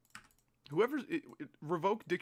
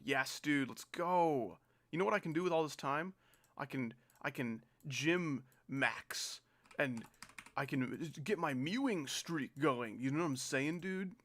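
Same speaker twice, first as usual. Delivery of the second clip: mock teen bro; 2 semitones higher, slower than usual. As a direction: ham up the gym-bro kid. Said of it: "people who talked like that".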